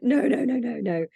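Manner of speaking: quick-fire string of noes, high and loud then easing down; emphatic refusal. Retold or imitated. Wife turning down husband's request to join the business, emphatic refusal. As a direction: shoot the idea down at once, voice jumping up.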